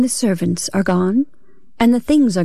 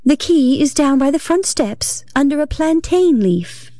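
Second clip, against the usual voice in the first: gentlest voice; 6 semitones higher than usual. A narrator's reading. Telling John through the locked door, gentle and higher. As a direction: sweetly explain where the key is. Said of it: "said I in the gentlest voice".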